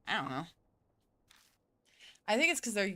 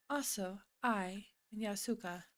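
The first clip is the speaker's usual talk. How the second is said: wrong character voice; 6 dB quieter than usual. Acted. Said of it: "wrong voice".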